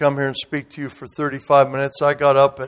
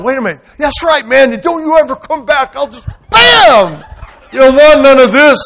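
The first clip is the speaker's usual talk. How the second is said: mock tough talk; 9 semitones higher, 6 dB louder than usual. Mock tough guy after it ended.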